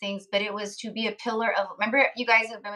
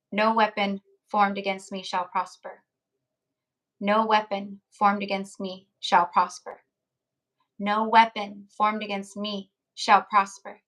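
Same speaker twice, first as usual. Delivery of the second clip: group affirmation. Real, not acted. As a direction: recite it like a shared prayer, word by word. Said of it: "and you guys can say it with me".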